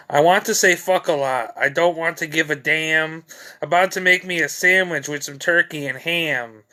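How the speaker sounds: poem recitation. Acted. Reads own comic poem.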